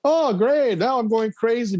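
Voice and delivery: high sarcastic oh great; mock cheer dripping with irony. Real, not acted. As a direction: ironic delight. Sarcastic reaction to antidepressants.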